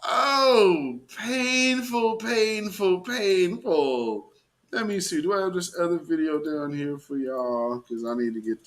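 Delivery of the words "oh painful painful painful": higher fake sob fading down over the painful's; mock crying. Mocking the skater's tears with fading fake sobs. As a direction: whimper painful like a weeping skater. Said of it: "crying white woman".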